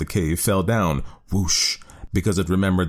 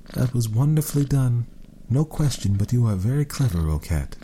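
admiring woman; 6 semitones higher than usual. A narrator's reading. Woman voiced in story.

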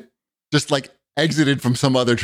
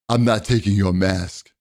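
lower, loosely imitated Middle Eastern accent; weird Middle Eastern accent; 5 semitones lower than usual. Maskless guy refusing the woman's mask, hint of Middle Eastern accent. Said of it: "that's my weird Middle Eastern accent".

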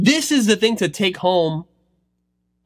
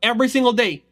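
put-on determined kid's vow; 4 semitones higher than usual. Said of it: "He goes".

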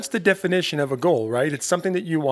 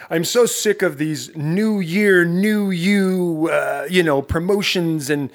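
a light take on a fed-up coach, louder; mock fed-up rant, slightly slow; imitating Tim Grover; 3 semitones higher, 3 dB louder, slower than usual. Host imitating coach Tim Grover fed up with new-year hype. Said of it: "This is the way Tim Grover talks".

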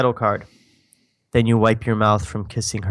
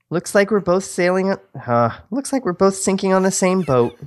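acted line; 8 semitones higher than usual. Acting a script line.

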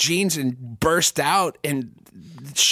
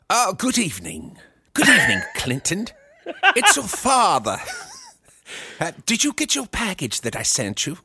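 a lightly voiced genteel father, with a few breathy asides; a comedian on a podcast plays his co-host's dad phoning his son, lightly genteel; friend's dad impression. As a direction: play a doting, over-refined dad calling his son. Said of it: "I'll try to do your dad".

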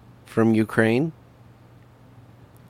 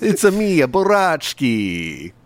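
put-on Ukrainian accent; 6 semitones higher, 4 dB louder than usual. Joking Ukrainian voices.

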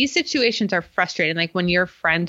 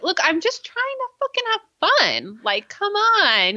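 yelling back; 13 semitones higher, slower than usual. Retold or imitated. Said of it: "Dawson just yells back".

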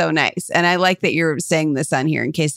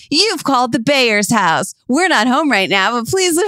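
put-on kid's answering machine greeting; 6 semitones higher than usual. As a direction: put on your best voice for the family machine. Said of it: "and be like".

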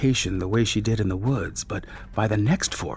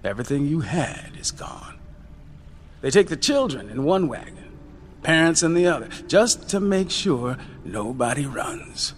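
put-on a softer, hard-edged old uncle telling hard truths; lecturing the young ones on cruelty; Uncle Jim, bitter and weary; 5 dB quieter than usual. Uncle Jim's bitter speech.

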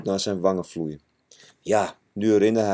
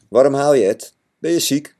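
worried question; 6 semitones higher, 6 dB louder than usual. Acted. Kees worried, asks crying friend.

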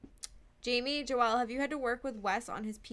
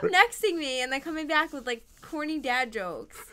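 annoyed scolding; 4 semitones higher, 8 dB louder than usual. Real, not acted. Cohost scolding co-host's interruptions.

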